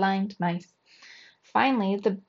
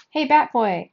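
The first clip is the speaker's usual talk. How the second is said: loud, higher call from the stands; kid calling out; 4 semitones higher, 7 dB louder than usual. A narrator's reading. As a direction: shout for the bat boy's attention. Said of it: "a kid called from the stands".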